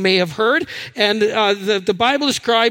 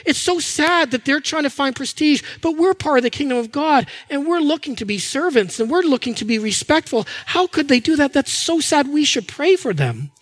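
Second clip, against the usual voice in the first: higher, sing-song mock sanctimony; hammed-up holier-than-thou pity; mock pious pity; 3 semitones higher than usual. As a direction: lampoon a pious sigh over others. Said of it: "they're going".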